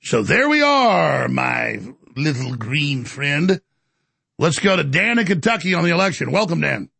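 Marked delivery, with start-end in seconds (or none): 0.0-3.6 mock villain aside. Host's slow mock sign-off.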